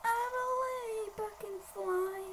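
high, slow cartoon plumber voice; Mario voice. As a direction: squeak it out like Mario. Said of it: "Nee, Mario".

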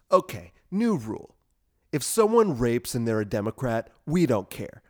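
announcing a new rule, mock TV host; lightly voiced Bill Maher decree; Bill Maher impression. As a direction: proclaim it like a smug late-night host. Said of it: "like that Bill Maher segment".

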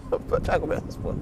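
laughing through the words. Real, not acted. Laughing at himself.

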